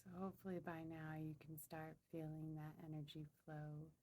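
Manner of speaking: calm, softened meditation voice; guided meditation. Real, not acted. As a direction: ease listeners gently into the energy flow. Leads a meditation.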